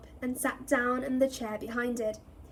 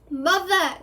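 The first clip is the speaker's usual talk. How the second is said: high, loud desperate scream; scream for mother; 6 semitones higher, 7 dB louder than usual. Acted. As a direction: scream for your mother to save you. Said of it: "screamed the boy below".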